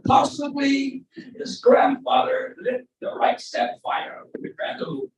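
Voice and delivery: slow, high mock-conspiratorial orator; George Gallagher impression. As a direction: spin a wild theory in a drawn-out put-on voice. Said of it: "do my George Gallagher impression".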